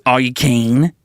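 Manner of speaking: put-on Australian question; playful attempt at Australian; Australian accent. Shown as a demonstration. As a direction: ask it in Australian. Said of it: "Australian is".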